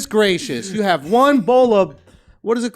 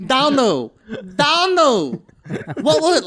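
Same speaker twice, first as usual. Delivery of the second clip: badly faked Vietnamese accent, falling on each call; mock Vietnamese accent; 3 semitones higher, much slower than usual. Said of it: "that was good Vietnamese accent".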